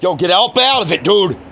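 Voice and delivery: real shout at someone to back off; calling out. Real, not acted. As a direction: call out sharply across the lot. Calls out sharply at someone nearby.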